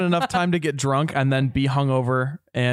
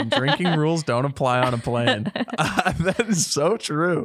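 laughing; 3 semitones higher than usual. Real, not acted. Laughing at motto.

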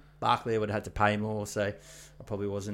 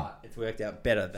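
muffled behind a hand; talking into a cupped hand; hand over mouth. Real, not acted. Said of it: "Stop talking into your hand".

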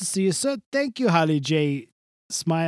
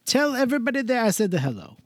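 lightly voiced old showbiz guy; a hint of a grand old entertainer; Mister Del Rossi; 3 semitones higher than usual. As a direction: guest saying goodbye, lightly voiced. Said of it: "bye, Mister Del Rossi".

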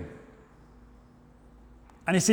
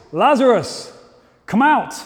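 mild loud call; 4 semitones higher, 3 dB louder than usual. Acted. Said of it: "he cried out in a loud voice".

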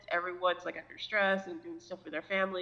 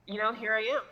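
holding back a laugh; stifled giggle on the words; trying not to laugh; 3 semitones higher, 3 dB louder than usual. Real, not acted. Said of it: "I'm trying not to laugh".

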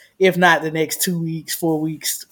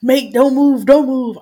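imitating the drunk guy; 7 semitones higher, 4 dB louder than usual. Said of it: "like, drunk".

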